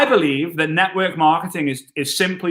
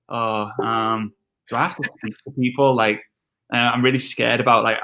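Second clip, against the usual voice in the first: nervous beginner; 4 semitones lower than usual. Retold or imitated. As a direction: act out your shy, scared old self. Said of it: "I was like".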